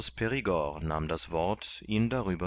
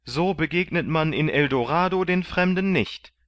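higher, louder protest; indignant Kandid; 9 semitones higher, 6 dB louder than usual. A narrator's reading. Kandid protesting his arrest, higher and louder. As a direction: protest in outrage. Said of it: "sprach Kandid".

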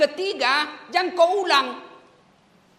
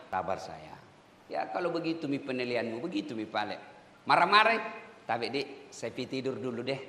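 much softer and lower, unbothered; calm patient reply; 11 semitones lower, 6 dB quieter than usual. Retold or imitated. Inmate calmly brushing off someone's anger, soft and low. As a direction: answer an insult gently, letting it pass. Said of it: "kata-katai ke orang".

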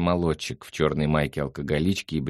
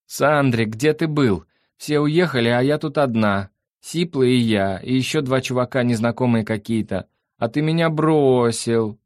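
high, loud complaining voice; plaintive creature; 7 semitones higher, 5 dB louder than usual. A narrator's reading. The creature reproaches Sandro for leaving her alone, high and plaintive. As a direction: complain like someone left behind.

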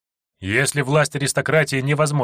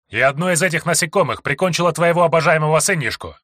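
higher, louder sarcastic barb; sarcastic jab; 5 semitones higher, 3 dB louder than usual. Acted. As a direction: needle him with venom. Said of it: "съязвил я". (язвительно, с издёвкой)

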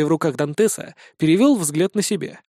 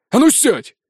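much higher, louder bark; 8 semitones higher, 5 dB louder than usual. Acted. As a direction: snap the order. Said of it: "рявкнул тот в ответ".

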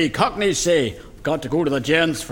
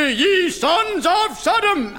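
preacher; 11 semitones higher, slower than usual. Acted. Pearly king slips into preaching.

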